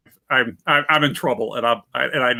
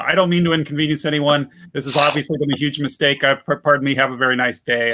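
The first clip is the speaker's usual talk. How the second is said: fast talking. Acted. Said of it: "I'm gonna fast talk my way out".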